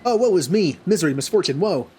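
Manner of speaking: lightly acted woe-is-me; lamenting kobold. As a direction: wail lightly in hammed-up misery. Voices a lamenting kobold in game.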